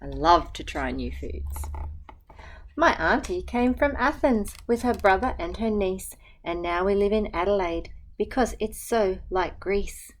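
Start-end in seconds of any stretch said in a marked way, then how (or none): 2.8-10.1 gentle, even picture-book reading; reading to children. Acted. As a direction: read the rhyme aloud to a class. Teacher reads picture book aloud.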